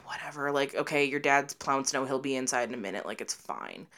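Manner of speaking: low, soft, dismissive retelling; imitating a mom who is used to it; unbothered mom. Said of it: "was already used to it".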